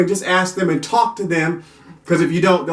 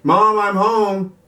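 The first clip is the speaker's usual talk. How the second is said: put-on child voice; much slower than usual. Voicing the child coming home.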